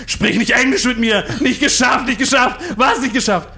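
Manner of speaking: screaming in a high-pitched fury; berserk rage. Acted. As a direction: rant at the staff, loud and high. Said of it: "Zadek bekam einen Tobsuchtsanfall".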